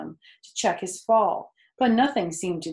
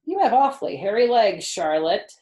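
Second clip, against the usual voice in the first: higher, louder piglike teasing; Wilbur the pig; 3 semitones higher, 8 dB louder than usual. Acted. Wilbur teasing the spider about her legs, lightly higher. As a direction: voice a curious young pig. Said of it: "said Wilbur".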